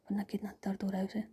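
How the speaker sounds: ordinary delivery, nothing marked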